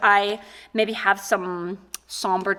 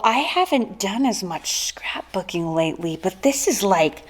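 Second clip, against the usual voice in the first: whispered aside; 3 semitones lower, 3 dB quieter than usual. Real, not acted. Aside while opening gift.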